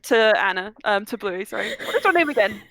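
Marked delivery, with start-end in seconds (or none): 1.9-2.6 put-on very old man. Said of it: "I'm old, speak up".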